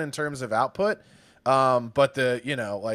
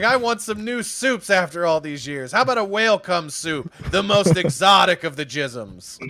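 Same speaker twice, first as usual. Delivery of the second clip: lightly imitated comedian, pitched up; Attell; 4 semitones higher, 4 dB louder than usual. Fan quoting his favorite comedy bit, raised-pitch impression. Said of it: "My favorite Attell of all time".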